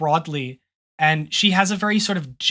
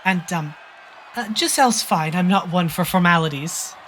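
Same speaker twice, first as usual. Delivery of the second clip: gentle princess. Acted. GM voices the princess.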